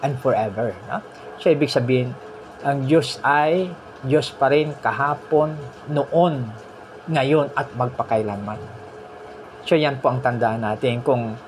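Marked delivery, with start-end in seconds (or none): 2.6-8.9 slow, deliberate preaching; slow emphasis. Real, not acted. Preacher slowly declaring God is the same always. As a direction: spell out each time slowly. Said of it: "preacher emphasising".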